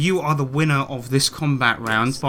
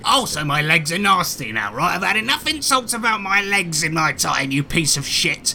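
high, indignant spider voice with stammering outrage; offended spider; 4 semitones higher than usual. Acted. Giant spider scolding the adventurers who insulted him, indignant and high.

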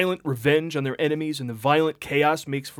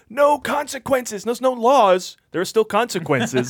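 high, slow mock outrage; indignant lecture in a high voice; mock outraged citizen; 8 semitones higher, 3 dB louder, slower than usual. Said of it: "They're like".

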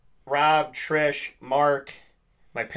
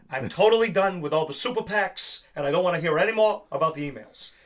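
Bernie Sanders; 3 semitones higher than usual. Acted. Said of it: "I do my Bernie Sanders".

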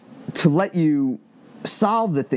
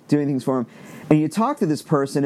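ordinary talk

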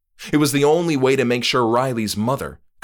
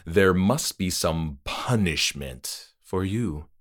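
grudging host. Acted. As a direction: admit it but insist. Trick-or-treater concedes.

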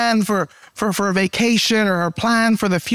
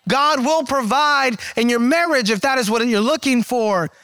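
rising preaching; 2 semitones higher than usual. Acted. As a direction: lift the congregation with faith. Preaching climax.

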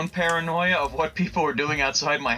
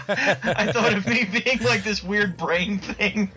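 higher, slow words breaking into laughter; real laughter, higher and slower; laughing; 6 semitones higher than usual. Real, not acted. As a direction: giggle through the picture in your head. Laughing at Krang image.

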